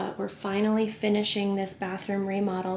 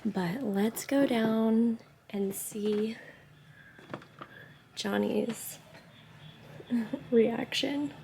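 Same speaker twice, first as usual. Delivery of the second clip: whispering; 5 dB quieter, slower than usual. Real, not acted. Sneaking down to film reaction.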